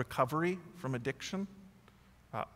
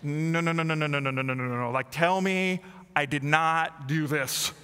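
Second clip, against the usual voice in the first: panicked pleading; 3 dB louder than usual. Retold or imitated. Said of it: "hurried over to my wife and said".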